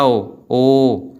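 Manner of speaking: "ओ, ओ" held long and slow; long drawn-out vowel. Shown as a demonstration. Teacher showing the vowel being pulled long, drawn-out "ओ, ओ". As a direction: stretch each "ओ". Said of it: "लंबा खिंच रहा है".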